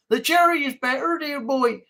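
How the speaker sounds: a lightly posh English voice with a rising tune; posh put-on accent. Shown as a demonstration. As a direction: play a toff saying dear boy. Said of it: "sound like a Yorkshireman".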